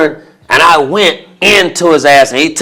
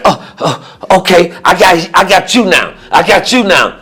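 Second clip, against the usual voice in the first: unsure Gary; 4 semitones higher than usual. Retold or imitated. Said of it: "he was like".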